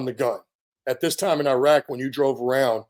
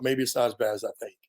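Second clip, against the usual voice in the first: quiet self-talk; 2 semitones lower, 5 dB quieter, faster than usual. Retold or imitated. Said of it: "I was trying to tell myself".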